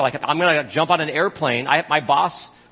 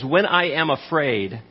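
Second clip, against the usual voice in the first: slow, trusting scripture reading; 2 semitones lower, slower than usual. Acted. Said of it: "he says".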